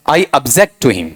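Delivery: slow sentence, "object" as ub-JEKT; weak first vowel, weight on the second syllable of "object"; verb pronunciation. Shown as a demonstration. Teacher reading the verb sentence whole, verb pronunciation. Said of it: "फिर अगला बताओ यहां पर".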